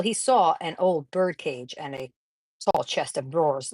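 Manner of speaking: storybook narration; reading to children. Acted. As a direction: read it like a bedtime story. Reads a picture book page.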